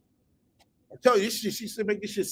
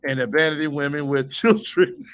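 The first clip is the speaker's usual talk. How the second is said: reading that cracks into laughter; real laugh bursting through the read words; breaking into laughter. Real, not acted. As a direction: lose it laughing near the end. Breaks up while reading the post.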